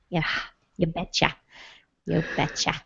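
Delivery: a folksy Midwest you betcha; Midwest Fargo accent. Pretend. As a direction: Midwest accent, lightly done. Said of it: "Midwest Fargo accent happening".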